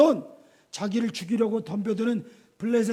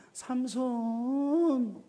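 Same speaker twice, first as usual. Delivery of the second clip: coaxing Delilah; 3 semitones higher, 4 dB quieter, much slower than usual. Retold or imitated.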